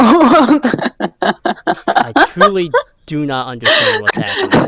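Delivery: crackly broken call audio; distorted audio. Real, not acted. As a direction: voice garbled like choking. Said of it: "you sound like you're choking on the rat".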